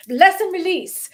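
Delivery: high, loud, drawn-out send-off; mock blessing. Sending off those who are offended, high playful blessing. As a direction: sing out the blessing slowly and high.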